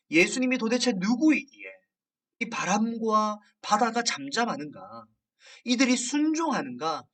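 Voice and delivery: restrained amazement, pitch climbing to the end; retold astonishment. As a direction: voice the disciples' bewildered wonder. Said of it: "라면서 놀랐다는 거죠".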